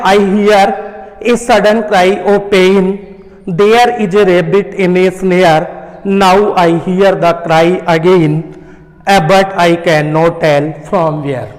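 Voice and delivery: slow, measured recitation of a poem for the class; slow classroom poem recitation; slow poem reading. Shown as a demonstration. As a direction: read each line slowly and deliberately to students. Teacher reads the poem aloud.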